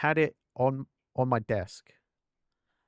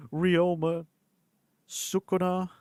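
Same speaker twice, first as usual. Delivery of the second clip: excited gasp; 6 semitones higher, slower than usual. Real, not acted. Excited gasp reading the name.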